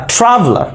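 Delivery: ট্রাভেলার with ট্রা pitched high, the rest dropping; stress on first syllable. Shown as a demonstration. Teacher demonstrating the word's sound, ট্রাভেলার stressed high on ট্রা. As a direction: punch ট্রা in ট্রাভেলার, swallow the middle vowel. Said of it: "আ সাউন্ডটা একদম silent থাকে".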